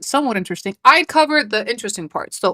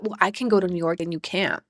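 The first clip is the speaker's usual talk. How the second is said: mocking bratty quote; 4 semitones lower, 8 dB quieter than usual. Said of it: "her emphasis is that".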